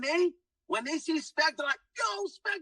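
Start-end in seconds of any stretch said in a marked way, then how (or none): 2.0-2.6 high-pitched mock fan greeting; excited, high retold hail; imitating crazed fans. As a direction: call it out like a starstruck admirer. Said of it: "they go crazy".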